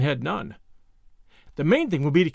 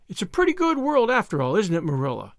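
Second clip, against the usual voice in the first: happy; 3 semitones higher than usual. Acted. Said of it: "concluded Anne happily".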